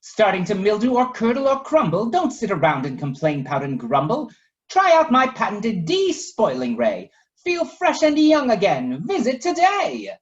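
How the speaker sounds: high, loud salesy advert voice; hammed-up ad pitch. Professor Biscotti's brochure pitches the ray, high and salesy. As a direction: sell it like a TV ad.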